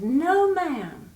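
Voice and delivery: high, drawn-out tree reply. A narrator's reading. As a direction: answer like a prim old tree. Peach tree voiced high.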